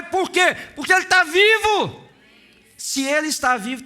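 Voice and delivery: loud, high, driving preaching; fervent preaching. Acted. Preacher proclaims the risen Jesus to the church, loud and fervent. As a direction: preach it at full force, near shouting. Preacher climaxes, shouting praise.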